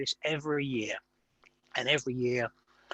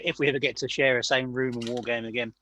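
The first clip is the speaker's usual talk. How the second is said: talking through a mouthful; words round a bite of mince pie; mouth full. Real, not acted. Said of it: "I'm talking with my mouth full".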